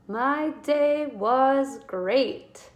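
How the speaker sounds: teacher reading with excitement; excited exclamation. Shown as a demonstration. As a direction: read it with an exclamation point. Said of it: "use an exclamation point".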